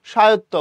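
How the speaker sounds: স্বায়ত্ত said "shayotto", no b or v; silent bofola. Shown as a demonstration. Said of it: "বফলার উচ্চারণ নাই".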